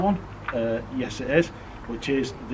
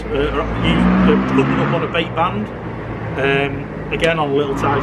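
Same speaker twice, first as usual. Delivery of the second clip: raised voice against engine noise; yelling over helicopter; 2 semitones higher, 6 dB louder than usual. Real, not acted. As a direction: push the volume over a helicopter overhead. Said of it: "apologies for the helicopter".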